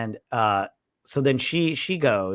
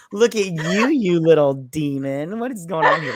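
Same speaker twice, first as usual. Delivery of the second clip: high, loud mock astonishment; squealing teasing surprise; mock amazement; 5 semitones higher, 4 dB louder than usual. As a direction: gawk in mock disbelief at the demon. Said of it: "And I go".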